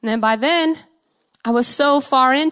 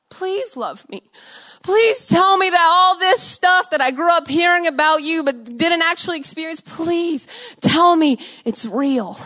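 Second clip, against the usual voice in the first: slow, higher, begging plea; pleading prayer; 5 semitones higher than usual. Retold or imitated. A broken girl begging God by the roadside, slow and higher. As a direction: beg God slowly to be real.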